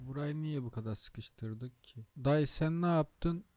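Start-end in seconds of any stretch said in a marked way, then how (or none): 2.2-3.4 higher, louder, slow drawn-out disbelief; incredulous. Real, not acted. Driver cries out at trucker blocking the turn, incredulous. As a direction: cry out in disbelief.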